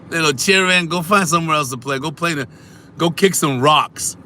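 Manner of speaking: high, loud teasing send-off; mock scolding. Streamer shoos childish chatters away, high mock scolding.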